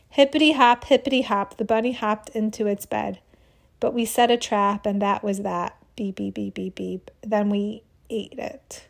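put-on sing-song kid poem. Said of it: "made this up on the spot".

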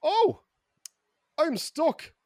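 high, helpless little cry; stranded whimper. Retold or imitated. Andy alone on an empty street, high and helpless. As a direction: squeak it out like you're lost and alone.

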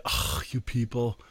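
a touch of a show-off waving mourners away; cocky brush-off. Retold or imitated. Preacher imitating a careless Jesus hushing the mourners, smug. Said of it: "He did not say".

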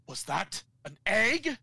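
rising to a high, loud panicked shout; a villain horrified as doom strikes. Retold or imitated. Gnome King discovering the poison egg, building to a high panicked shout.

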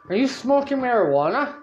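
lightly voiced guard, pitched high; high-pitched mock interrogation; imitated security guard. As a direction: question him like an official.

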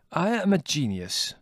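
simple statement. A narrator's reading. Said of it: "said Costi simply and without boastfulness".

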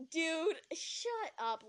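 slow, drawn-out put-down; exasperated. Acted. Jeremy cutting off the accusation, exasperated. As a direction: stretch each word, fed up.

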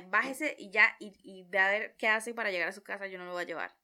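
loud, angry order to get out; angry driver. Retold or imitated. Angry driver ordering his copilot out of the car, loud. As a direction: bark it like a furious driver ending the ride.

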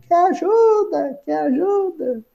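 high, soft, fading echo; distant drawn-out reverberation, dying away; imitated echo. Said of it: "Aí vem até o eco".

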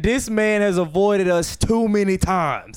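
slow, hammed-up demonic complaint; lightly voiced demons, drawn out; mock demon voice. Demons complain about Batman, slow mock menace. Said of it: "demons saying".

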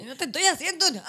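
high, wailing mock sob; mock crying. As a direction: ham up a tearful breakdown.

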